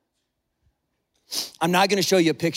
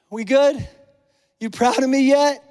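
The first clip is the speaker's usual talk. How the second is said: eager for approval; 4 semitones higher, 4 dB louder than usual. Acted. Acting out anxious bids for God's approval.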